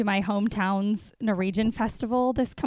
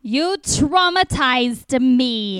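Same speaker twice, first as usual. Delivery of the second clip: slow, drawn-out Jersey accent attempt; 4 dB louder, much slower than usual. Shown as a demonstration. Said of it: "Say it a few times".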